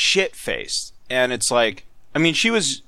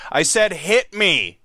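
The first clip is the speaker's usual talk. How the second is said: slow, higher slurred demand; drunk slurring; 6 semitones higher, slower than usual. Retold or imitated. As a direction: drag the words like you're sloshed. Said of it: "slurring her words".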